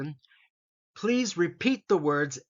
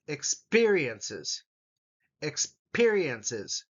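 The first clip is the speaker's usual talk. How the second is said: Experiences said very slowly, syllable by syllable; much slower than usual. Shown as a demonstration. Teacher modelling Experiences slowly for students. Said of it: "listen for where the emphasis is".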